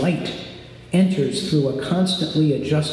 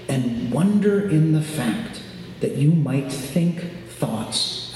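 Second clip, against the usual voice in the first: guided meditation. Acted. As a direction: guide them into calm. Leads a meditation.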